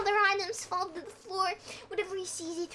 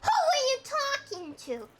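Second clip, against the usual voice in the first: angry demand; 7 semitones higher than usual. A narrator's reading.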